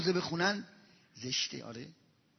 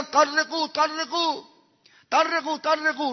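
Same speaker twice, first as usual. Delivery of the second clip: raised, drawn-out call to make way; herald's call; 4 semitones higher, slower than usual. Acted. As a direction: clear the crowd like a herald. Heralds clearing the way.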